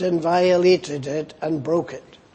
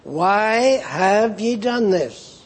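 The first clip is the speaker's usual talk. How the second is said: slow, weighty reading of the question; a solemn God asking why; God's question; slower than usual. Acted. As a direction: let each word land, slowly. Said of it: "what does God say".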